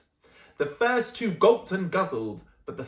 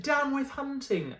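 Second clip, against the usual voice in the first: higher, sing-song little dinosaur hoot; gentle hoot; 7 semitones higher than usual. Acted. Drip hooting his own words, higher and light. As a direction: hoot it like a shy duckbill. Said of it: "For he hooted".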